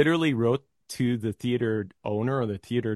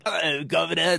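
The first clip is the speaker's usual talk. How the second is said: thick Cornish accent, higher-pitched mock greeting; hammed-up imitation of a thick Cornish accent; 5 semitones higher, 3 dB louder than usual. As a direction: lay on a thick Cornish-style English accent. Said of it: "that really thick accent".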